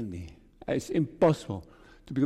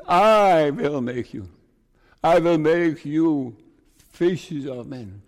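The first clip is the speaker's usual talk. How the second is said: louder, slow, each word weighed; slow ringing preacher's emphasis on I; emphatic promise; 6 dB louder, slower than usual. Acted. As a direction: proclaim the promise firmly. Repeating the Lord's promise.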